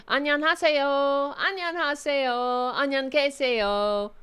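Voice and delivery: hammed-up repeated hello; mock polyglot. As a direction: parade one phrase as fluency. Mock claim of speaking Korean.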